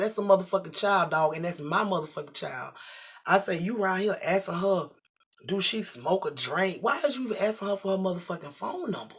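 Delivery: angry confrontation. Retold or imitated. Confronting the man angrily.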